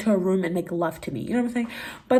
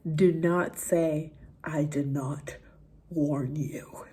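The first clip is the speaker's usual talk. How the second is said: whisper; 4 semitones lower, 7 dB quieter, much slower than usual. Real, not acted. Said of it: "whispered aside to Mom".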